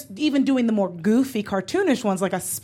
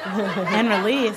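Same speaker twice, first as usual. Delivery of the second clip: slow release; 2 semitones lower, much slower than usual. Acted. Mock Kegel release.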